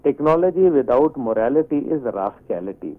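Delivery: each word set down slowly and deliberately; slow and weighty, like quoting a proverb; slow emphatic maxim. Real, not acted. Guest lays out his maxim slowly for the host.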